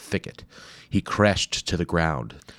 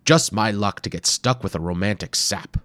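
sighing grumble; 3 semitones higher, 4 dB louder than usual. Acted. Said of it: "Doctor Wimple sighed".

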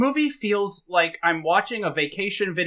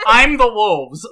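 slow, louder mock growl as the wolves; mock wolf growl; 6 dB louder, slower than usual. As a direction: growl it out slowly like a wolf pack. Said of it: "wolves start growling in the woods".

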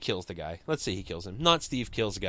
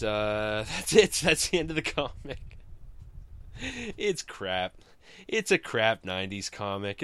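usual speaking voice

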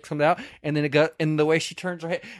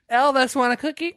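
much higher, silly bird voice asking for a cookie; mock parrot voice; 10 semitones higher than usual. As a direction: play a squawky pet bird. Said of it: "That was not a cat either".

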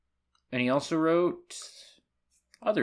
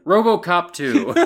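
slow, louder title announcement; grand movie announcer; 5 semitones higher, 6 dB louder than usual. Retold or imitated. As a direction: draw out the title dramatically. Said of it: "I was doing the bit from the movie".

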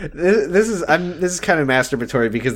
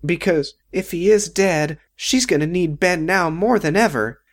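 imitating Betty; 4 semitones higher than usual. Imitating Betty rambling to Ben, pitched up. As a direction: ramble it sweetly and dimly. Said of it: "She goes".

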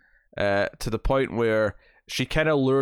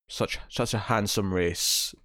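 dry Worf line; 3 semitones lower, 4 dB quieter, much slower than usual. Retold or imitated. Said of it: "he's like".

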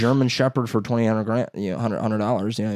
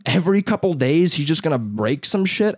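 mock disbelief, pitched higher; incredulous; 6 semitones higher than usual. Buyer questioning the dog's owner, incredulous. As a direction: act out a baffled objection. Retold shocked reaction to owner.

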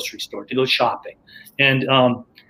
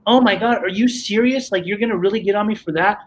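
exasperated protest; 5 semitones higher than usual. Retold or imitated. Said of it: "I'm like".

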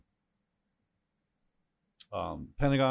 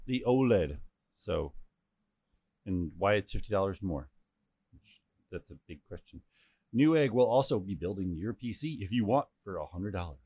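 glitching audio. Real, not acted. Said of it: "your mic is cutting out constantly".

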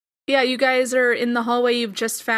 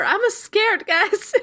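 much higher, shrill scaredy-cat yelp; trembling whiny yelps; 10 semitones higher, slower than usual. Acted. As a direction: push the whine way up, panicky. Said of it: "your scaredy cat friend".

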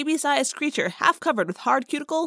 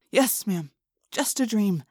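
reassuring; slower than usual. Acted. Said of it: "Jake said reassuringly".

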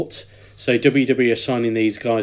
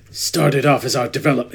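terrible Triple H impression. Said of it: "it's a terrible Triple H impression".

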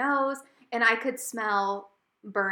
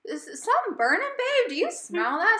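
high, sing-song mock of the oblivious boyfriend; mocking Joe; 10 semitones higher than usual. Wife mocks boyfriend sniffing for smoke, high innocent mock voice. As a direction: play him dumb and innocent, pitched up.

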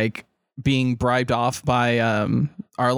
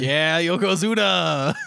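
excited cheer; 2 semitones higher than usual. Real, not acted. Cheering the sumo character.

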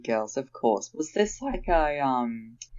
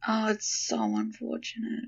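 hands cupped over mic; 8 semitones higher, 6 dB quieter than usual. Real, not acted. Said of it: "talking into my hands".

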